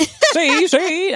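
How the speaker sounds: high, loud mock 1930s gangster; bad gangster voice. Podcaster hamming up an old movie gangster voice. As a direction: snarl "see, see" like a movie hood. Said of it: "I think I'm doing a, a bad, like, bad guy".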